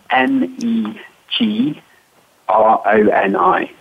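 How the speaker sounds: N E G R O N I spelled letter by letter, slowly; spelling it out. Shown as a demonstration. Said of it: "can you spell that for me".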